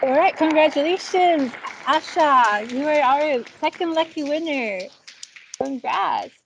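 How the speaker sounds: high, bright cheer for the winner; hyped giveaway announcement. Real, not acted. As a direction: celebrate the winner's name. Lucky draw winner reveal.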